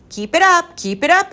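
high, loud cheering; urging on. A narrator's reading. Professor cheers the children to keep joking, urging on. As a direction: spur them on eagerly. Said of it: "he encouraged".

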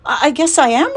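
put-on young pig, high and eager; lightly voiced young pig. A narrator's reading. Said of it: "replied Wilbur".

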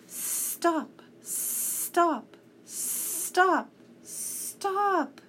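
a cat breaking down, begging it to stop. A narrator's reading. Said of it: "he sobbed".

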